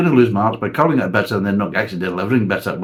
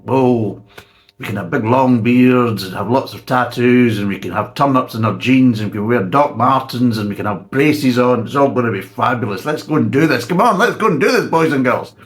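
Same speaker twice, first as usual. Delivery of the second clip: mock hipster hype; 3 semitones higher, 5 dB louder than usual. Reviewer mocking hipster brewers, hammed-up excited cheer. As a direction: sell the hipster beard-and-tattoo dream with mock glee.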